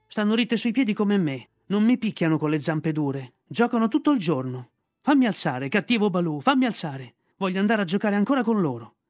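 a cub begging to be let up; pleading boy. Acted. Mowgli begging to play.

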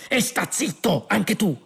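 high, slow irritated snarl. A narrator's reading. Prisoner silencing the guard, irritated snarl. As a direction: snarl it, drawn out. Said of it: "ringhiò Ford".

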